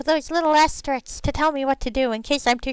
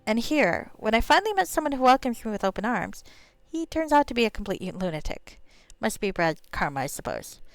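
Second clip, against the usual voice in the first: understated, weary drow complaint; exasperated drow; 3 semitones lower, 4 dB quieter than usual. Acted. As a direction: lament politely as a let-down drow. Voices exasperated drow to gnome.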